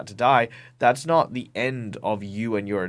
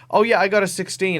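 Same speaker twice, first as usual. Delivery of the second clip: put-on cheeky kid boasting; 9 semitones higher, 5 dB louder than usual. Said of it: "who have basically gone".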